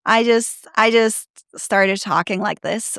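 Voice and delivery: relaxed American English accent. Shown as a demonstration. Showing the accent she switched to, American accent. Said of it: "switch to my American accent".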